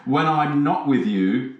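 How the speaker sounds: slow, syrupy mock-romantic line; half-joking sweet nothings; mock tender. Shown as a demonstration. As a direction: lay on the romance, slowly. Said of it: "Isn't that nice?".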